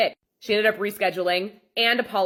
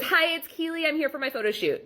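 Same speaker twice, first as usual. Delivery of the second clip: imitating Keely, pitched higher and airy; mock client voice; 9 semitones higher than usual. Photographer mimics late client announcing herself, higher mock voice. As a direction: play the late client breezily unaware.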